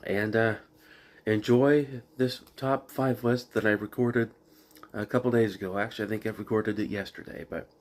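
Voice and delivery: talking around a cough drop; sucking a hard candy. Real, not acted. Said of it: "I've got a cough drop in my mouth".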